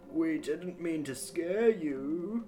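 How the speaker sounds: put-on slow, thin old man voice; creaky old man, slow; very old faint voice. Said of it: "It's the old man's voice".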